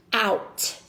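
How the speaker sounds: "out" said slowly and clearly as a teaching demo; clear, careful "out" for young readers; sounding out a syllable. Shown as a demonstration. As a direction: model the first syllable "out" for the class. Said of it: "I'm going to pronounce that first syllable".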